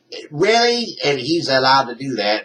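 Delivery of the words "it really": incredulous. Real, not acted. Outrage at allowed video.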